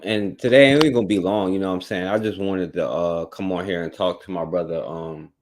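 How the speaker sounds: talking funny after the dentist; numb mouth from dentist. Real, not acted. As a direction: speak through a numb mouth. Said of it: "if I'm talking funny, I, you know, went to the, uh, to the dentist earlier".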